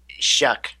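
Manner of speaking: SHARK squashed to shuck; South African attempt. Shown as a demonstration. Briton guessing for the host, shuck for SHARK. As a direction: shorten the vowel of "shark" to uh, no r. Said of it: "how does a South African say".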